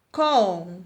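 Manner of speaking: conserva as con, ser, va; split into syllables. Shown as a demonstration. Teacher counting three syllables, word split apart. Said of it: "três sílabas".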